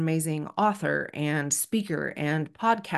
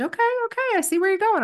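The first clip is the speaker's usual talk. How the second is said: much higher, eager okay okay; excited friend; 13 semitones higher, faster than usual. Retold or imitated. Melissa warming to Jan's foot idea, high and eager. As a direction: catch on with delighted energy. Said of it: "She said".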